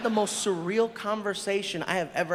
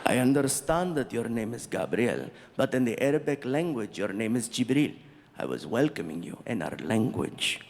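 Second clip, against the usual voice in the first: lower, calm, measured prince voice; 8 semitones lower than usual. Retold or imitated. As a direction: speak as the polite prince explaining kindly.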